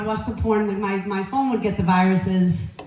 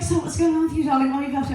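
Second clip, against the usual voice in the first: put-on higher, chatty British accent; British gynecologist; 4 semitones higher, faster than usual. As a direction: make small talk as a British doctor. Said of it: "she's British".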